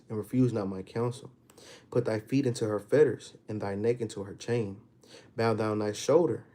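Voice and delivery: measured reading with weighted key words; solemn, emphatic Bible reading; scripture reading. Acted. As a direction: read the verse out deliberately, phrase by phrase. Reads scripture aloud.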